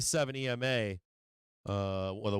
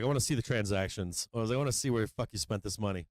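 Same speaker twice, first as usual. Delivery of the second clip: fast, mock-heated demand; quoting his own angry demand to his wife; retold angry demand; 4 semitones lower, faster than usual. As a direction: rattle it off like an indignant husband.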